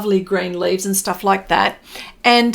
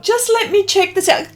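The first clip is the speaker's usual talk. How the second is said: quoted own thought; 10 semitones higher, 3 dB louder, faster than usual. Retold or imitated. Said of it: "I thought".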